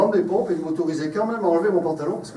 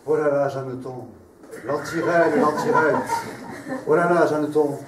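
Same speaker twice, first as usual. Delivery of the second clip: grand tragic stage delivery. Acted. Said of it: "je déclame des vers érotiques sur un ton de tragédie".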